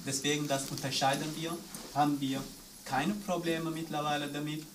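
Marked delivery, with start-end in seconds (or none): none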